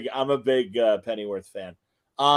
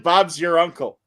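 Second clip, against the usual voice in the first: mock English accent; 4 semitones higher, 6 dB louder than usual. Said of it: "he said".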